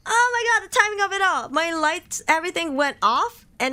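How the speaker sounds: loud, high, frightened exclamation; real jump scare, voice spiking; scared horror game streamer. Real, not acted. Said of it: "That jump scared me".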